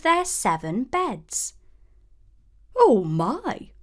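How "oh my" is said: high, delighted little dwarf voice; a dwarf gasping at a pretty girl; exclaiming dwarf. A narrator's reading. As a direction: coo over a sleeping child. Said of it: "one of them exclaimed".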